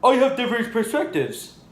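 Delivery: high put-on voice of a friend; Preston. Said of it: "my friend Preston".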